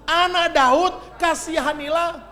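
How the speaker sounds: drawn-out high plea, loud; crying out. A narrator's reading. Preacher voicing the blind man crying out to Jesus, loud slow plea. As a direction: stretch it out as a loud beggar's cry. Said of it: "semakin keras ia berseru".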